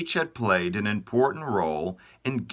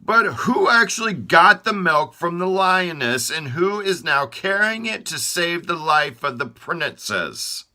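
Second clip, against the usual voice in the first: much higher, louder proud boast; proud declaration; 10 semitones higher, 6 dB louder than usual. Acted. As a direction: Hands showing off to the others. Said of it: "Hands declared proudly".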